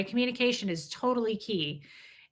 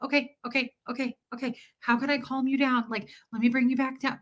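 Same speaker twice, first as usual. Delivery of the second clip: imitated fearful placating; 3 semitones higher, faster than usual. Woman retelling how she calms an angry man, mildly fearful. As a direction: placate nervously, starting hushed. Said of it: "do you know how fearful I get".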